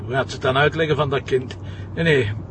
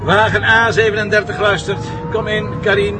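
louder, higher radio answer; radio reply; 6 semitones higher, 4 dB louder than usual. Acted.

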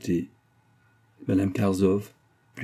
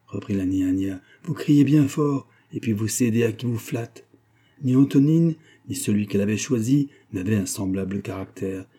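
grave nanny rebuking, raised pitch; stern old nanny; 3 semitones higher, 3 dB louder than usual. Acted. Old servant defending Dournoff to her mistress, stern. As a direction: reprove her firmly, voice lifted.

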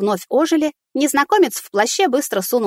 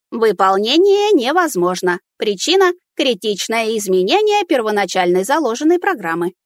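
rusty robot; 2 semitones higher than usual. Acted. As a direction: rattle it out like a machine. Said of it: "завибрировал механический голос".

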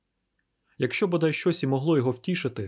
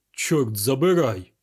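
slow, louder exclaimed oath; exclaimed curse; 5 dB louder, slower than usual. Acted. Ganimard shakes his sleeping agents, loud curse. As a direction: bark the curse at the sleeping men. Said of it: "вигукнув Ганімар".

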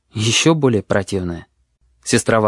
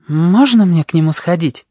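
put-on higher child's voice, hopeful; pleading boy; 6 semitones higher, 4 dB louder than usual. A narrator's reading. Boy asking the tutor, hopeful child's voice. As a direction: ask hopefully. Boy asks to see wolf.

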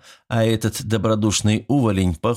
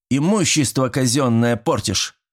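angry; 5 semitones higher than usual. Acted. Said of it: "рассердился Однорукий".

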